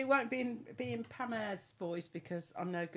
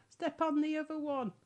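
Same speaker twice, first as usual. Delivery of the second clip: high shouted punchline; 9 semitones higher, 7 dB louder than usual. Acted. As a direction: yell it out as the old woman. Mabel shouting in poem.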